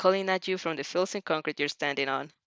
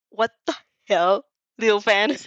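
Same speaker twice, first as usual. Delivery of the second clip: startled loud exclamation; 8 dB louder than usual. Acted. Character caught reader at ledge.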